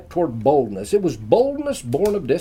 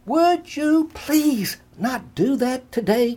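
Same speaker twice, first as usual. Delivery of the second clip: annoyed; 11 semitones higher, slower than usual. A narrator's reading. Kate scolds Ray.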